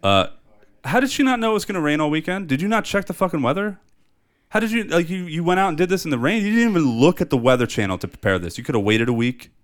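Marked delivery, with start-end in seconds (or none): 0.8-8.0 high, incredulous rant at her; a real exasperated outburst at the character. Real, not acted. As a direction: vent at her disbelief. Ranting at the movie character.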